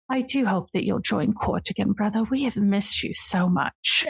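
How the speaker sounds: lightly voiced regal sister, gently inviting; a hint of a queen coaxing her brother home; regal sister, fond farewell. Sister inviting her brother back to court, lightly regal and fond.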